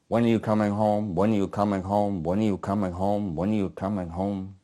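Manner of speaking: repetitive refrain, gradually fading; letters read out. Acted. Narrator recounting a pal's letters from home, monotonous fading refrain. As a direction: run the repeats together, sinking slightly each time. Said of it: "he reads out to me the letters".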